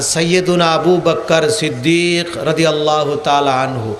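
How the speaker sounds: low, hushed and respectful; reverent. Shown as a demonstration. Preacher showing how to say Abu Bakr's name with reverence, low and hushed. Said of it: "এই তাজিমের সাথে".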